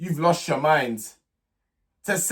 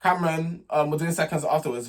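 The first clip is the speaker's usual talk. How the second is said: very calm. Retold or imitated. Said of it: "Very, very calm tone of voice".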